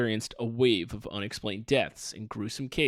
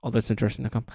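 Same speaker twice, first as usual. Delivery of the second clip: rushed; much faster than usual. Shown as a demonstration. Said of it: "One more time".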